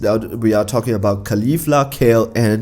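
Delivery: hoarse, worn-out voice. Real, not acted. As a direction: voice going from coughing. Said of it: "You can hear that the voice is going".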